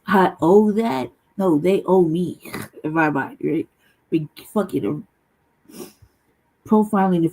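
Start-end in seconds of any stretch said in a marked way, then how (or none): 0.1-2.4 slow indignant retort. Retold or imitated. Imagined retort to clerk.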